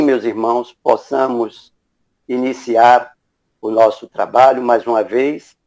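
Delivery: normal talking voice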